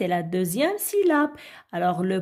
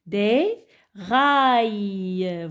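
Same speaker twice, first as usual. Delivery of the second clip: model reading; much slower than usual. Shown as a demonstration. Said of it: "l'image suivante".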